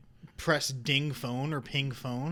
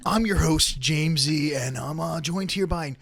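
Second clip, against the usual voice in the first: radio host; slower than usual. Retold or imitated. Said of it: "starts like a radio host".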